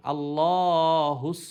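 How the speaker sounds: আল্লাহুস with a thick, heavy স, loud and slow; loud slow demo of আল্লাহুস with a heavy স. Shown as a demonstration. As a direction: sound the স in আল্লাহুস full and thick. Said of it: "সৎটা মোটা উচ্চারণ হবে".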